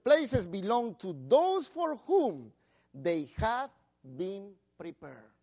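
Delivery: slow, deliberate reading; measured scripture reading; read slowly. Shown as a demonstration. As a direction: read it again slowly, pausing between phrases. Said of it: "let me read".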